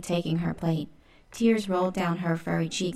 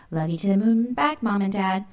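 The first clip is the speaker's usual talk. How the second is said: put-on kids yelling goodbye; 3 semitones higher, 6 dB louder than usual. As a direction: shout it to parents across the room. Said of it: "and yelled".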